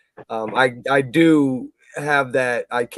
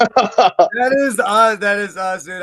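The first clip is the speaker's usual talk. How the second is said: slow, louder and higher, stretched out; excited agreement; 8 semitones higher, 8 dB louder, slower than usual. Real, not acted. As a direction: lean in hard, this is exactly us. Eager agreement on love.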